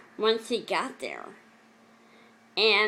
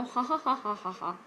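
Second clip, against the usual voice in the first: a soft, awkward laugh to cover the hurt; soft nervous laugh after admitting something painful; rueful laugh; 2 semitones higher, 3 dB quieter than usual. Real, not acted. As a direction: laugh it off softly, a bit uneasy.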